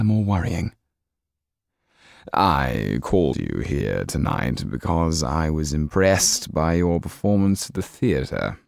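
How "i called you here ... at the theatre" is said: looks down on them from a great height; cold menacing Count. Acted. The Count speaks again.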